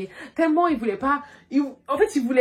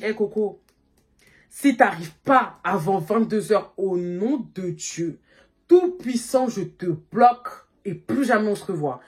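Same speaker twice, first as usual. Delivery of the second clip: slow, drawn-out half-joking warning; mock solemn threat; slower than usual. To her late date: slow mock-solemn ultimatum. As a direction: lay down the ultimatum slowly and gravely.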